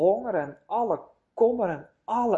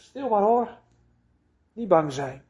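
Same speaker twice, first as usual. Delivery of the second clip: soothing. Acted. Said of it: "stelt hij je gerust".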